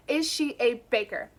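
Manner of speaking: "Is" stressed, flat falling end on "baker"; calm, businesslike repeat of the question; matter-of-fact question. Acted. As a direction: ask "Is she a baker?" as if it were perfectly reasonable. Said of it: "I say like it's a perfectly reasonable first question".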